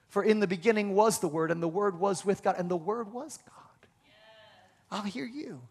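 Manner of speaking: scripture sinking from soft to whispered; hushed, reverent recitation fading out. Acted. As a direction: let the verse die away into a breath.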